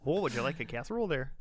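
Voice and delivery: quick put-on Minnesotan hospitality; Minnesotan accent. Joking host offering food, Minnesotan accent. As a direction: play up the Minnesotan accent, briskly. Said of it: "Whenever I do that accent".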